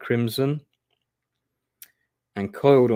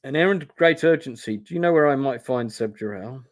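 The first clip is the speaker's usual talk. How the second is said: lightly put-on Huron accent; mimicked Huron accent; 3 semitones higher than usual. Hero asks after Seb, mimicking the Huron accent. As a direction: imitate a northerner's Huron accent. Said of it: "mimicking the Huron accent".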